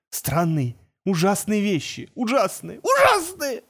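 terrified journalist shrieks about the truth; breaking into a shriek. A narrator's reading. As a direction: let the voice crack into a squeal. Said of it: "сорвался он на визг".

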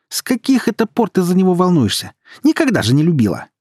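high, loud accusing yell; shouting from another room. A narrator's reading. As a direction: yell it through the flat. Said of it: "крикнула ей Света из комнаты".

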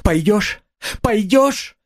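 high, rising, pleading question; trembling plea. A narrator's reading. Sonya gripping his hands, trembling fervent plea. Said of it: "спрашивала она его, вся дрожа".

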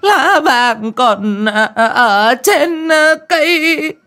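high, loud, slow keening for a dead son; wailing lament. A narrator's reading. Grieving mother wails beside her son's coffin, keening. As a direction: drag out each cry like a funeral lament. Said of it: "mồm ê a".

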